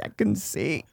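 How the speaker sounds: hushed dramatic Wahlberg line; lightly voiced Wahlberg drama; Wahlberg acting. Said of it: "acting chops for Marky Wahlberg".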